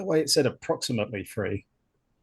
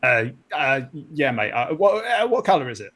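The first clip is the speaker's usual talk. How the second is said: hesitant, rough Cockney question; attempted Cockney accent. Crewman asks the officer about the spider's colour, attempted Cockney accent. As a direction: ask it in shaky Cockney. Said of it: "can you do the Cockney accent".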